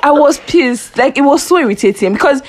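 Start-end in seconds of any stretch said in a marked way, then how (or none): 0.0-1.0 slow, laughing through the words; laughing recollection of being pissed off, slow. Real, not acted. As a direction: giggle out the punchline. Laughing while recalling anger.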